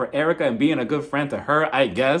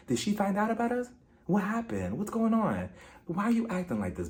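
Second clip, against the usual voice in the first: mock Mauricio calming; 3 dB quieter than usual. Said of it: "he's like".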